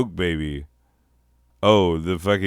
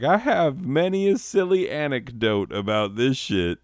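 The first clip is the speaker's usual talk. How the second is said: mock storyteller; 6 semitones higher than usual. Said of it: "I am not gonna linger and be like".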